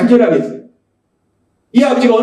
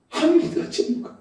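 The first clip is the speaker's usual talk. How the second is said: hushed; 4 semitones higher, 11 dB quieter than usual. Real, not acted. Preacher repeating the father's doubt, hushed. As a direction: breath-only whisper. Same line repeated in a hush.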